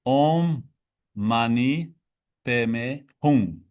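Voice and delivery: "Om Mani Padme Hum" spoken word by word, with a pause after each; teaching the mantra, "Om Mani Padme Hum", one word at a time; syllable by syllable. Shown as a demonstration. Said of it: "En langue sanskrite, on appelle".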